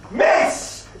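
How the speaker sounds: high, slow, shouted introduction; grand announcer shout. Acted. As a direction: announce her like a showman.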